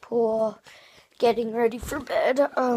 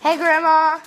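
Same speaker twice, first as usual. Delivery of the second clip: cheerful greeting; 6 semitones higher, 6 dB louder than usual. Real, not acted. Greeting grandma on phone.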